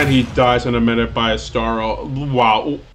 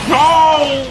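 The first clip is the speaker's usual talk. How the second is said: shocked cry; 13 semitones higher, 3 dB louder than usual. Real, not acted. Reacting in game.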